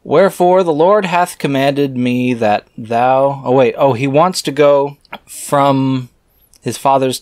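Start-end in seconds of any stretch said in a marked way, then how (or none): 0.0-3.4 put-on slow, solemn reading of old scripture. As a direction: intone the archaic words like a preacher. Reads scripture aloud.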